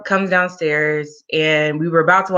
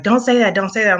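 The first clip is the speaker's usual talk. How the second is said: urgent mock alarm, pitched up at first; retold freak-out; 4 semitones higher, faster than usual. Driver reacting to an eerie premonition, lightly freaked out. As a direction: imitate someone freaking out, lightly. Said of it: "she freaked out".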